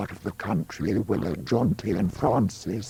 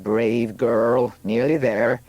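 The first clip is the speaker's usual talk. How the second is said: rising, louder midwife's urging; excited encouragement; 4 semitones higher, 5 dB louder than usual. Acted. Helper to new mother at birth, excited. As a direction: cheer her on, lifting higher as the baby arrives.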